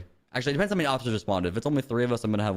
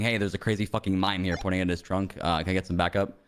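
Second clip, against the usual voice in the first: radio call; 4 semitones lower than usual. Acted. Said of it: "give him a fair warning on the radio".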